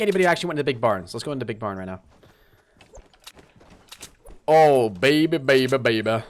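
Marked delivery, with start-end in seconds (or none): 4.5-6.2 gleeful croon of delight; excited. Real, not acted. Gamer delights at his loot, crooning excitedly. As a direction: savor the find out loud.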